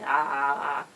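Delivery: repeated ah's, playing at dying; hammed-up dying ahs; mock dying cry. Sasha claims the silence was killing her, mock dying cry.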